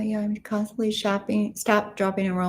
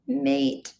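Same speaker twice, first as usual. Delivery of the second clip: higher-pitched try at an Australian accent; Aussie accent; 6 semitones higher than usual. Shown as a demonstration. Streamer asked for an Aussie accent, high-pitched Australian attempt. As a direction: have a rough go at sounding Aussie. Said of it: "Can you do an Aussie accent".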